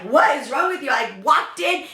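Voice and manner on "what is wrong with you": raised, calling out what's wrong; husband's puzzled shout. Retold or imitated. Husband calls out to his soaked, angry wife, puzzled shout. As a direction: call out baffled at the dramatic entrance. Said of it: "My poor husband was probably like".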